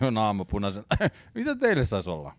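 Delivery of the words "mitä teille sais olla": businesslike customer service, mildly put on; straight-faced professional question; matter-of-fact. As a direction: greet a customer with feigned composure. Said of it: "Tosi silleen niinku asiallisesti".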